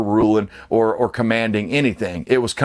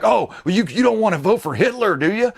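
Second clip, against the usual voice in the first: mock canvasser; 6 semitones higher than usual. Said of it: "they'll be like".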